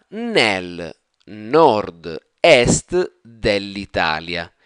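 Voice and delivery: slow, drawn out phrase for repetition; slow model reading. Shown as a demonstration. Teacher reading the sentence slowly for students to repeat. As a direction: read each word slowly for learners. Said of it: "pronounce it with a quicker, more fluid intonation".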